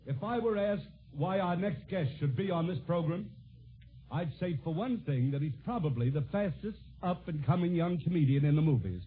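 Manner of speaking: earnest, measured tribute without the clowning; sincere introduction. Real, not acted. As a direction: drop the comic mask and speak as a proud father. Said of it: "permit me to drop my comic mask".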